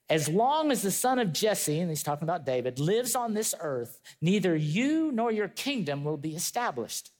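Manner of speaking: slow, weighty reading of the verse; slow scripture reading. Shown as a demonstration. Preacher reading Saul's threat to his church, slow and weighty. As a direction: let each phrase land slowly. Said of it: "And it says".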